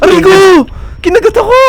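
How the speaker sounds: high startled yelp of pain. Real, not acted. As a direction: yell out like you just got bitten. Character bitten in game.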